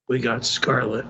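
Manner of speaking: low mocking repeat. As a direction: sneer it back in a low voice.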